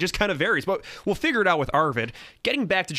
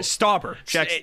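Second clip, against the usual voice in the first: laughing correction; 4 semitones higher than usual. Real, not acted. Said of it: "no, I'm, I, it's Ja".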